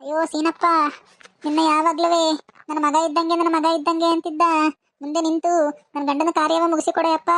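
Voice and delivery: acted widow's wail; tearful lament. Widow begging Seenappa to perform her husband's rites, tearful lament. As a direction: lament aloud in mild, understated grief. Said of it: "ಒಳ್ಬೇಡ ನೀನು".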